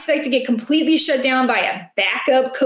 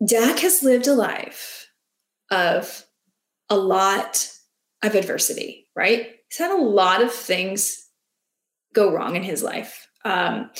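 mock deep moment; 5 semitones lower than usual. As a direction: play it like a half-joking heartfelt reflection. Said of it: "This is my deep moment".

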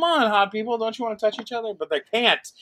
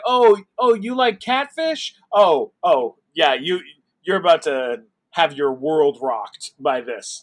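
hyped show voice; 5 dB louder than usual. Retold or imitated. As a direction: sell the drama like a trailer. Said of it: "it's like".

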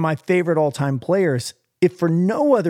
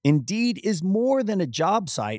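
smooth, softer sponsor read; host reading the sponsor message; 3 dB quieter than usual. Acted. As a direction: read the ad like a polished spot. Reads sponsor ad.

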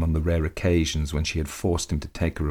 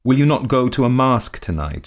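put-on high, louder, peevish old lady; querulous; 8 semitones higher, 6 dB louder than usual. A narrator's reading. Countess nagging her husband to go out. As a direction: whine it out like a spoilt countess. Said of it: "she asked querulously".

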